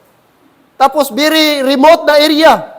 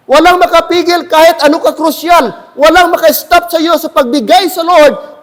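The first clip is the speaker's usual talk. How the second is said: preaching shout; 4 semitones higher than usual. Acted. Preacher urging congregation, shouted repeat. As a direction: raise the voice and drive it home.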